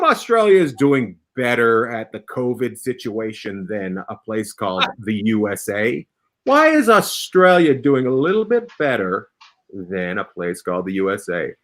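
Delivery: host's question dropping into low pitch; mock-serious quiz question. Host putting the covid question to guests, mock-serious. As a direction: pose it gravely, sinking low on the country name.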